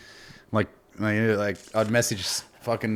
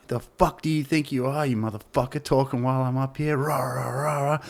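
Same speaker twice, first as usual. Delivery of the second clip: retold heckler rant; 3 semitones higher, 3 dB quieter than usual. Retold comic berating heckler.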